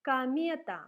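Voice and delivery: "комета" said "камета", loud, unstressed O as A; teacher modelling the word for students, loud; Russian word. Shown as a demonstration. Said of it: "So we say".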